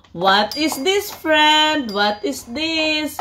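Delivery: sing-song picture book reading; reading to a toddler. Acted. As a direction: coax a toddler through a book.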